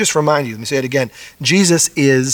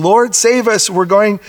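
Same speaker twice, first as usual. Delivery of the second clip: panicked plea; 6 semitones higher than usual. Retold or imitated. Pastor voicing the frightened disciples to the Lord, panicked plea. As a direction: plead like men in a sinking boat.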